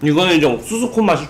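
chewing while talking; talking between bites; mouth full of pizza. Real, not acted. Seen 3: Bit pizza just before; lips work on food through early words.

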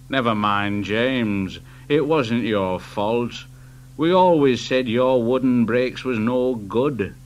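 reassuring. Acted. Driver comforts James.

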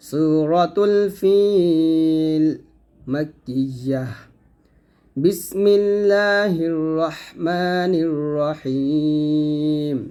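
slow, drawn-out tajweed chant; Quran recitation. Shown as a demonstration. Teacher opens the lesson with a slow recitation. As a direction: recite slowly, stretching each vowel. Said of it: "আমরা সহি শুদ্ধ করে শিখব".

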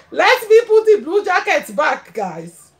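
repeats it through a real laugh; giggling as she says it. Real, not acted. Streamer to her viewers, laughing it out.

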